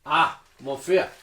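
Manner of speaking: loud, slow mock French greeting; put-on French accent. Game master as shopkeeper greeting a customer, mock French accent. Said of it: "pretend this is in a French accent".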